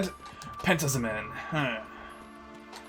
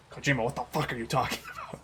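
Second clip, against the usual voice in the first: laughing exasperated quote; 6 dB quieter than usual. Retold or imitated. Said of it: "was just like".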